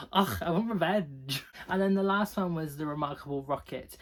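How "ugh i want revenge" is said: louder hammed-up vengeful groan; exasperated mock vow of vengeance; mock annoyance. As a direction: groan it out in playful outrage. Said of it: "that one annoyed me".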